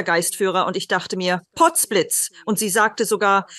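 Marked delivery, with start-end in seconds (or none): 1.5-2.3 higher-pitched mock astonishment; retold burst of surprise; startled exclamation. Medium recalling her first spirit guide appearing, startled.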